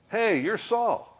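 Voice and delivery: high exclamation of mock discovery; sudden recognition. Woman suddenly recognizing Saul, mock surprise. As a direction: blurt it out, high and startled.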